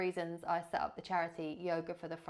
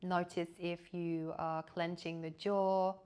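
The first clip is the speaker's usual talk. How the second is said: guided meditation. Real, not acted. Yoga teacher leading listeners into body awareness, calm guided meditation. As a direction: guide them gently into rest, leaving long silences.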